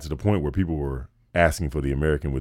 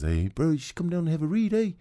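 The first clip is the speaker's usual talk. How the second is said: put-on Kiwi accent, pitched higher; higher Kiwi accent from a radio guy; radio guy inviting him in a Kiwi accent; New Zealand accent; 11 semitones higher, 4 dB quieter than usual. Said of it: "the guy gives me a call and says".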